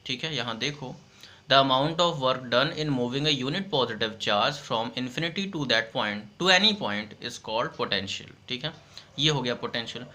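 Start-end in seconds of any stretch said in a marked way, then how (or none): 1.5-8.5 reading the bookish definition slowly for notes; slow dictation. Shown as a demonstration. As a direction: dictate each phrase so students can write.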